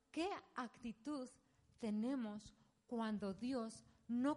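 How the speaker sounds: slow, weighty sermon question; slow preaching question. Acted. Pastor asks the women's congregation, slow and weighty. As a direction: lean in and draw the question out slowly.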